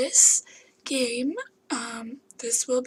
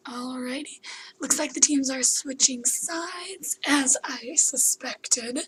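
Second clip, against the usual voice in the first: whispering; slower than usual. Real, not acted.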